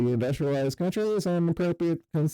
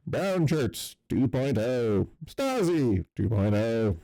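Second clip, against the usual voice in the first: slow sarcastic jab; slower than usual. Real, not acted. Mocking slow verdict.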